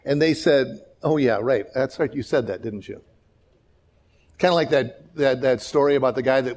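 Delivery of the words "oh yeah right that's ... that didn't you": sarcastic. Retold or imitated. Israel mocking God's promise.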